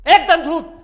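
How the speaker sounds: sharp high cry of lie; loud denial. Acted. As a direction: shout the denial. Accused loudly denies in court.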